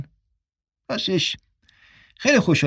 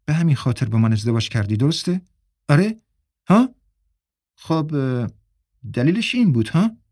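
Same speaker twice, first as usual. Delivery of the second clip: accusing. Acted. Mira accuses husband.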